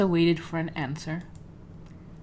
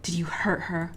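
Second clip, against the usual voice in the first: whispering. Acted. Character whispers a worried question.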